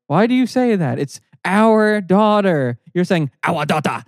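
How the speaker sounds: a little girl mocking her mom's accent; stereotypical African accent. Girl mimics mom's accent on the phone, stereotypical African accent. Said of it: "she does the most offensive, like, stereotypical".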